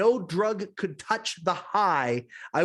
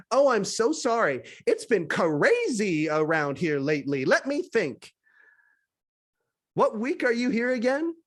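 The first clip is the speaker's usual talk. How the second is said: a hint of a bright, cheerful receptionist, rising a little; breezy and friendly, lightly played; lightly voiced flamboyant man; 4 semitones higher than usual. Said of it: "cheerful and flamboyant".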